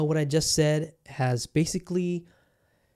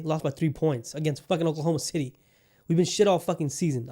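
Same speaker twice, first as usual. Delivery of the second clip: getting worked up. Real, not acted. Podcast host ranting about the losing season before calming himself. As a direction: vent about the season until you catch yourself. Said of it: "okay, bring it down".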